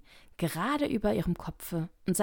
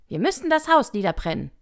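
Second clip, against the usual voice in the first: loud, raised-pitch proclamation; rabbit calling out; 4 semitones higher, 9 dB louder, faster than usual. A narrator's reading. Rabbit urges the crowd to burn the house, calling out. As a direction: call it out to everyone. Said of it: "rief das Kaninchen".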